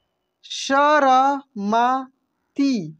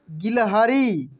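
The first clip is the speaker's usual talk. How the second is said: a bit slow; much slower than usual. Shown as a demonstration. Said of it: "इसके बाद देखेंगे यहाँ पे".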